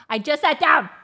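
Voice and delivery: high-pitched protest; exasperated complaint. Real, not acted. Owner to the barking dog after settling, exasperated. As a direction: whine it out in disbelief.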